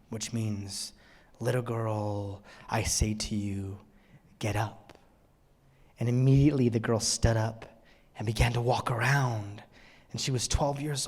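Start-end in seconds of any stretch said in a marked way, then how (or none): 1.4-5.0 gentle command. Acted. Tender command to a dead child.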